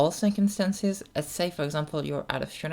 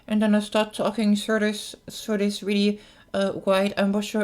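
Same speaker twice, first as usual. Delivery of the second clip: talking through a rounded O mouth; dark O-shaped talking; 2 semitones higher, 5 dB louder than usual. Shown as a demonstration. Voice coach shows viewers the dark sound of O lips. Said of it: "it sounds really dark".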